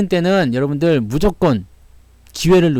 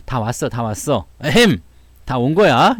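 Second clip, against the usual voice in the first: mock pompous reassurance; 3 semitones lower, slower than usual. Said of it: "다 왔다고 얘기하면 힘나잖아요".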